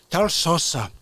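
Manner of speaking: hammed-up gangster fast-food complaint; angry gangster arguing over sauce; Scarface impression.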